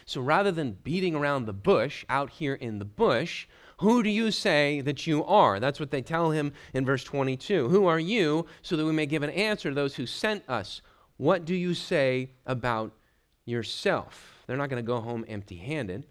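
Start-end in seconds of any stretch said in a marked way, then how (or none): 0.0-5.6 acted impatience, building toward the question; mildly exasperated. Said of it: "they're probably exasperated at this point". 7.7-14.4 insistent questioning, slowing at the end; mildly exasperated. Acted. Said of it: "they're probably exasperated at this point".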